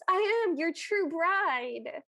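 slow, drawn-out mock plea; lightly acted, lingering cry; retold cry of lament. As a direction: stretch it out as the bride's lament. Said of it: "she cries".

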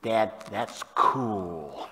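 lightly voiced teen, drawing the words right out; hint of an impressed kid, very slow; impressed teenager. Father mimicking his teenage kids, lightly drawn-out awe. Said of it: "When they were teenagers, they would say".

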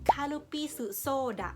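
คารุปิสุโซดะ said the Japanese way; Japanese pronunciation. Shown as a demonstration. Vlogger teaches viewers the soda name, careful. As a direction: sound out คารุปิสุโซดะ syllable by syllable. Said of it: "จะอ่านออกเสียงว่า".

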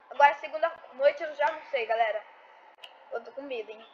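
nervous, quiet scared voice; scared horror game streamer. Real, not acted. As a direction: whisper your fear to the chat. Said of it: "eu tô tremendo".

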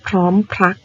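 พร้อมพรัก with the r sounded in both syllables; true r clusters. Shown as a demonstration. Teacher modelling a cluster word for pupils, r clearly sounded. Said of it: "เป็นคำควบกล้ำแท้".

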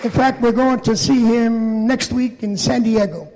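winded, out of breath. Real, not acted. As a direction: talk while short of breath. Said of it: "I'm out of breath".

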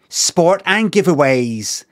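slow "giveaways", stretching an English-style "ways"; anglicised ad pronunciation. Shown as a demonstration. Streamer repeating the advert to point it out, slow anglicised "giveaways". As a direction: mimic the announcer's careful "giveaways". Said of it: "Notice how it's ways".

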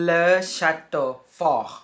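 Le château fort said slowly as a model; French pronunciation. Shown as a demonstration. Teacher naming the toy castle, careful French. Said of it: "ภาษาฝรั่งเศสก็จะอ่านว่า".

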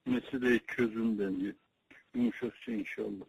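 over a landline phone. Real, not acted. Phone call with the elder.

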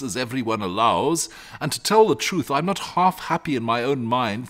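a hint of a homely, sympathetic mother; sensible mother. Mother praising her son and pitying the dragon, sensible.

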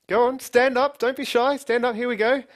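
loud, high, urging call to the audience; rallying the crowd. Real, not acted. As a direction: rev up the room, building to a shouted "go".

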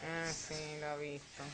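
drops the tone. Retold or imitated. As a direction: voice sinks as it gives in. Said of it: "Baja enseguida el tono".

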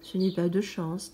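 «Ce n'est pas de chance» plus bas, descente sur «de»; un homme las qui accepte son sort; allumeur résigné. Acted. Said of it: "dit l'allumeur". (l'allumeur répond au petit prince, voix basse et résignée)

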